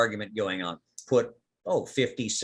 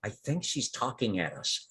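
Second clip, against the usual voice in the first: little plant voice; 8 dB quieter than usual. Acted. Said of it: "one kind of little voice go".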